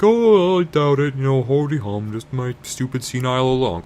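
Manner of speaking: dismissive Leia. Retold or imitated. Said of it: "And Leia's like".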